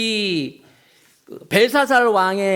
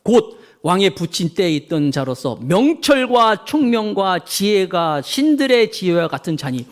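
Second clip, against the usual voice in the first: scripture reading; slower than usual. Acted.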